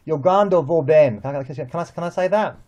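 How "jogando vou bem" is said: slow, careful Portuguese "Jogando vou bem"; Portuguese phrase. Shown as a demonstration. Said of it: "I can say".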